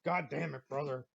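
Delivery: mild wrestler bravado greeting; buddy playfully imitating a wrestler's greeting, lightly voiced; Hulk Hogan. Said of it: "Like I'm fucking Hulk Hogan".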